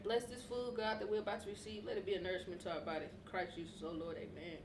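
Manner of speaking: fast quiet grace, fading; rushed mumbled prayer. Real, not acted. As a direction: mumble a quick blessing. Quick grace before eating.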